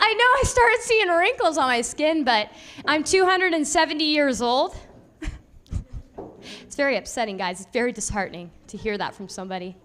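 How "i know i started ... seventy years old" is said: mock-offended.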